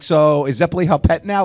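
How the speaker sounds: put-on high, loud questioning kid voice; imitating puzzled child. Dad retelling his son's muddle over death, imitating puzzled child. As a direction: imitate a kid earnestly working it out.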